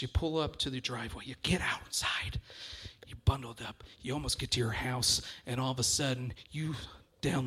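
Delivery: hushed spooky storytelling. Acted. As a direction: start up, then sink to a low, soft hush. Sets a spooky story scene.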